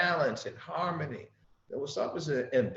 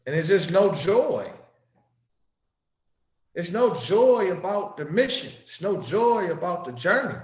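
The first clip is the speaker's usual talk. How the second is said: raised, insistent preaching voice; emphatic preaching; 5 dB louder than usual. Acted. Preacher lamenting to the congregation, raised and emphatic. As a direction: drive the point home louder.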